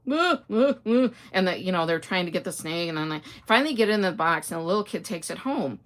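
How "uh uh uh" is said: nervous, stammered uh's, higher and louder; retold panic. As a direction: act out mock panic watching the snake. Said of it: "and I'm freaking out".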